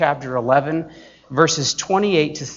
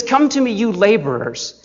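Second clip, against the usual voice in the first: ringing call; 5 semitones higher, 3 dB louder than usual. Shown as a demonstration. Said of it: "And so Jesus says".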